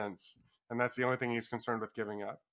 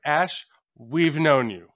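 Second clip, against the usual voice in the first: loud, slow acted-out reproach; "known you" said loudly and slowly in mock reproach; mock exasperated retort; 3 semitones higher, 9 dB louder, much slower than usual. Book club answering Ash back, mock exasperated retort.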